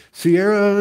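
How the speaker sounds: loud, high mock wail; crying, upset granddaughter. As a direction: imitate a child wailing her sister's name in complaint. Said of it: "she's crying and she's upset".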